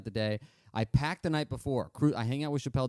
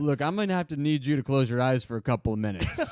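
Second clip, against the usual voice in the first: louder joking request with a laugh; 5 dB louder than usual. Retold or imitated. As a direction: pitch it as a laughing joke. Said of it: "I said it jokingly".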